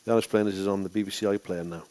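understated, matter-of-fact announcement; lackluster. Shown as a demonstration. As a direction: give the plug with little energy. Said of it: "that's very lackluster".

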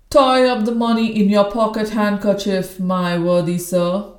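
loud barrack-room voice; hoarse old soldier. Acted. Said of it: "a barrack room intonation of the worst order".

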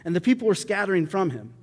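measured reading of a Bible passage; scripture reading. Acted. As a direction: read the passage aloud to the congregation. Reads scripture passage aloud.

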